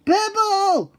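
sudden high alarmed cry; startled yelp. Acted. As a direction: yelp at the sight. Startled by pebble.

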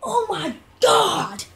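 high, slow, shouted disbelief; overjoyed cry; excited shout. Real, not acted. Gamer shouts in joy as the game works. Game finally starts working.

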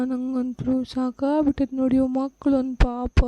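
slow, worn-out sighing complaint; tired of it all, dragging the words; weary lament. Acted. Weary mother laments drunk husband. (ಬೇಸರದ ದಣಿದ ಅಳಲು)

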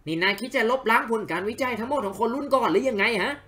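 lightly voiced haughty scholar; character voice. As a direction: read the rival's lines with a little disdain. Voicing game character dialogue. (เสียงตัวละครนักวิชาการหยิ่งๆ แบบเบาๆ)

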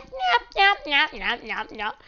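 quick repeated nasal-free yaps, falling away; imitating creepers. Gamer mimics the creepers for viewers, playful yapping imitation. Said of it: "They're just like".

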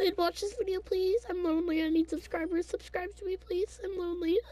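fake crying. Begging viewers to subscribe.

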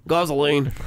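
gasoline in a bad Australian accent, broad gahz vowel. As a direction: say gasoline like an Aussie, badly. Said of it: "horrible Australian accent".

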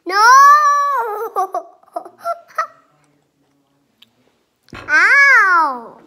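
shrieking laughter while tickled; being tickled. Real, not acted. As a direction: squeal and laugh, squirming.

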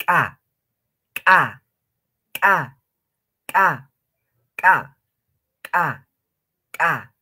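Ka popped hard and loud each time; explosive ka. Shown as a demonstration. Teacher drilling the ejective ka, popping. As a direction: burst ka like something exploding. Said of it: "como si estarían haciendo reventar o explotar algo".

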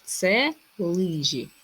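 Це лижі drawn out slowly, falling at the end; slow reveal. Shown as a demonstration. Teacher revealing the riddle answer to pupils, slow. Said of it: "Все правильно".

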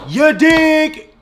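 high put-on hipster voice; cool-guy voice. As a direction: jive it like a cool cat. Dad ends intro with slang.

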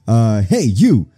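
loud, commanding summons; hammed-up gang boss calling out; bossy Rocket superior. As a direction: order a grunt over with force. Plays Rocket boss ordering the grunt.

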